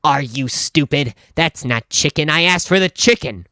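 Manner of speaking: imitating a disgusted customer's scoff, then mild indignation; lightly mocking disbelief. Customer scorning the clerk's wall of chicken, scoffing. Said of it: "She scoffs and goes".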